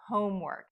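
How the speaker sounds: homework with strong HOME and clear work; primary stress on home in homework, secondary on work; careful model of homework to end the list; compound noun stress. Shown as a demonstration. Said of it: "extra stress on the first word".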